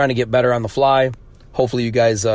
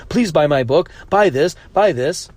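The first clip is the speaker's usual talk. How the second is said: mock begging; 4 semitones higher than usual. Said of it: "hear me begging people for".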